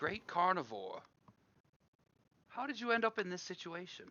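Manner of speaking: soft, hushed, slightly high voice. Speaking in character to a caged creature, just loud enough to hear: speaking quietly, not loudly. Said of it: "I'm trying not to say it loudly".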